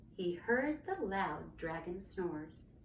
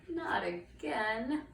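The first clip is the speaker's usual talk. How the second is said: very slow, weary protest; weary knight; much slower than usual. Acted. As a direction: draw it out with dismay. Knight weary of yet another roar.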